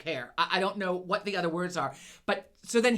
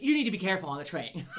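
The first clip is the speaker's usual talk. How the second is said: laughing. Retold or imitated. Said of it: "Please be careful on the train".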